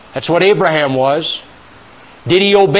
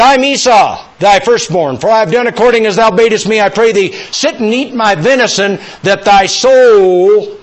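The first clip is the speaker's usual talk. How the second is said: a hint of a louder, eager liar; Jacob lying; 4 semitones higher, 4 dB louder than usual. Jacob deceiving his blind father, lightly acted and eager. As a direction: press the lie a little harder. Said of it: "Jacob lied".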